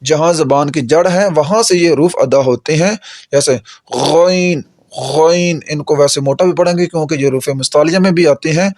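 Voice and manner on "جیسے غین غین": غین slow from the upper throat at the tongue root; teacher sounding out a throat letter; demo of ghain. Shown as a demonstration. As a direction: draw out غین from the back of the tongue. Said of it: "گلے کے اوپر والے حصے سے ادا ہوتے ہیں".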